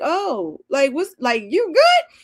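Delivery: high laughing squeal; half-laughing, half-worried check-in; laughing concern. Retold or imitated. Daughter asking mom about her menopause, laughing shrill concern. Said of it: "I'm like".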